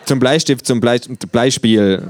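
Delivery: hohe, verspielte Känguru-Stimme. A narrator's reading. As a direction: frech und hoch als Känguru. (freche, hohe Känguru-Stimme)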